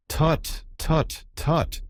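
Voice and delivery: lightly voiced doctor's tutting, pitched high; a hint of a pretend physician; make-believe doctor. A narrator's reading.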